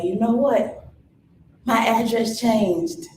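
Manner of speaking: put-on announcing to old friends she has changed; firm stand. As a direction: stand your ground out loud.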